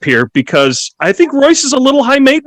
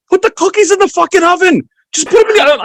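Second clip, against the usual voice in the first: high insistent dream order; high dream orders about cookies to his wife; sleep-talking command; 10 semitones higher, faster than usual. Retold or imitated. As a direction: bark it from a dream.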